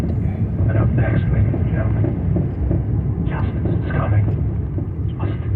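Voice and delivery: very slow, low movie-trailer whisper; unnecessarily dramatic tease. Pretend. Pretend show tease for viewers, overblown trailer whisper. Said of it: "unnecessary drama into a tease".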